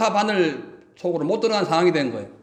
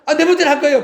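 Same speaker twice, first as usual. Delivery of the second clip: higher, louder rebellious retort; mock defiant outburst, pitched up; acted defiance; 7 semitones higher, 5 dB louder than usual. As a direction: play the willful one talking back. Acts out the rebellious sheep.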